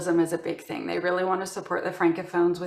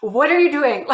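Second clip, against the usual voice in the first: frustrated manager; 4 dB louder than usual. Retold or imitated. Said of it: "my manager was getting so frustrated".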